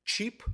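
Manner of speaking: "cheap?" jumps high as a pointed question; stressed word. Shown as a demonstration. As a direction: lift "cheap?" sharply up, held out as the key word. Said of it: "emphasizing on the word".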